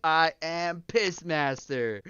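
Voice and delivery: lightly mimicked cartoon announcement, drawn out slowly; slow, mock-grand self-introduction; Pissmaster. Streamer echoing the clip he just played, lightly imitated hero voice.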